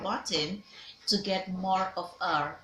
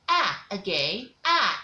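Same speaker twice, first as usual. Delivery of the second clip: loud drawn ah; 3 dB louder than usual. Shown as a demonstration. Teacher calling out ah for the class to echo.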